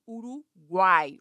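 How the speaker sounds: "Uruguai" slowly as u-ru-guai; syllable by syllable. Shown as a demonstration. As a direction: stretch "Uruguai", keeping uai together. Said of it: "vogais na mesma sílaba".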